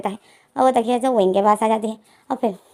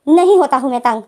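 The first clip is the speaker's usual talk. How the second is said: louder, mildly angry retort; angry denial; 2 semitones higher, 5 dB louder than usual. Retold or imitated. Wing denying to Lenzen that he gets annoyed, acted anger. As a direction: push back hard on the first word. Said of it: "विंग को गुस्सा आ रहा है".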